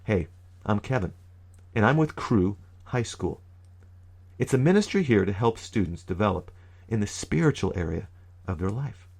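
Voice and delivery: measured, phrase-by-phrase introduction; slow it down with pauses between phrases; really slow. Shown as a demonstration. Youth minister repeating his introduction to students, really slowly. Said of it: "really slow".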